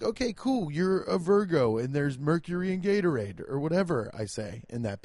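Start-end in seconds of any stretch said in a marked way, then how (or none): 0.0-3.5 mock polite. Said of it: "I'm like".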